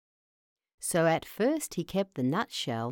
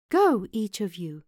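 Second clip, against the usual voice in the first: commanding mouse; 3 semitones higher, 3 dB louder than usual. Acted. Mouse princess orders her servants.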